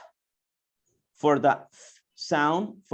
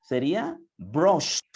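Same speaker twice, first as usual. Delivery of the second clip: slow model word; slower than usual. Shown as a demonstration. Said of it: "cómo vamos a pronunciar".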